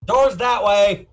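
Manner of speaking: slow, pointed brush-off; dismissive. Acted. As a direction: point them out the door. Dismissive character line.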